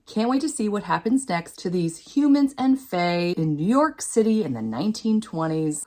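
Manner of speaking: usual speaking voice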